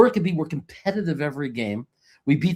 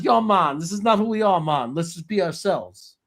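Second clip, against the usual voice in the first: raised-pitch mock Jamaican accent; bad Jamaican accent; 4 semitones higher than usual. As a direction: do a poor Jamaican accent for a film quote. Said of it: "that's the worst Jamaican accent in the world".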